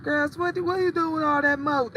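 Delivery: high mock Southern grandma voice. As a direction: mimic a Southern grandma scolding. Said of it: "they be like".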